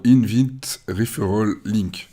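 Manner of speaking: slow English words in a French accent; bad French-accented English. Real, not acted. Guiding a newcomer to the referral link, French-accented English. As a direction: read English terms with a clumsy French accent. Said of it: "Désolé pour mon accent de merde".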